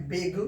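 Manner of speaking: "बिग" with a brief, light i; short i. Shown as a demonstration. Teacher reading a short-i word for students, demonstrated short i. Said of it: "छोटी ई में".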